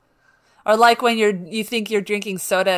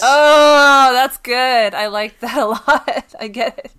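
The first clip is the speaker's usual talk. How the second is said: loud, high, laughing delight; 5 semitones higher, 9 dB louder, slower than usual. Real, not acted. Cohost hearing the Yahtzee joke, loud delighted laughter. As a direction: crack up at the punchline.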